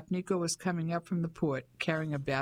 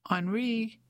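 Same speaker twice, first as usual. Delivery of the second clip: restrained, higher-pitched call of a name; bellowing; 6 semitones higher than usual. A narrator's reading. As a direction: call out to summon someone, only mildly bellowed. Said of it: "Nico bellowed".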